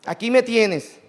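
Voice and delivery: the preacher proclaiming Christ's offer aloud. Acted. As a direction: proclaim it, stress on me. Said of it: "tan grande, misericordiosa".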